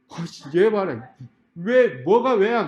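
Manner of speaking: slow, drawn-out annoyed disbelief; acted exasperation, rising in pitch; exasperated. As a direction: scold a cheeky kid, stretching the words. Exasperated adult answers cheeky student.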